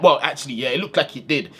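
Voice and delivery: normal talking voice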